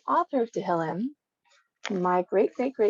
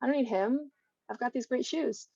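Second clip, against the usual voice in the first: higher, airy, careless and self-satisfied; smug carefree mock; 4 semitones higher than usual. Mocking a careless person who feels he needs nobody. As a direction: play the smug fool who forgot God. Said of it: "Don't think".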